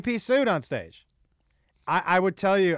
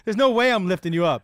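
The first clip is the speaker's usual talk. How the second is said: breaking into laughter, louder, higher; laughing; 3 semitones higher, 8 dB louder than usual. Real, not acted. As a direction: laugh out the refusal. Laughing while retelling.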